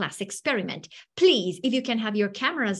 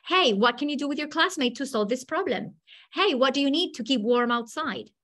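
asking questions; 3 semitones higher, faster than usual. Retold or imitated. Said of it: "For example".

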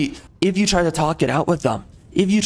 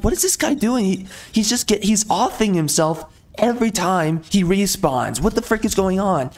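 higher-pitched incredulous outburst, acted out; exasperated disbelief; 3 semitones higher than usual. Player reacting to a reckless teammate, exasperated disbelief.

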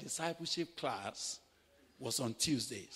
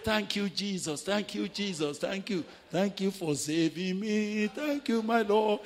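laughing thanks; 5 semitones higher, 6 dB louder than usual. Retold or imitated. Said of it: "I was laughing".

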